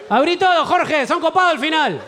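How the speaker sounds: put-on old man voice. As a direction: play a grumpy old man coming round. Imitating an old-fashioned man's reaction.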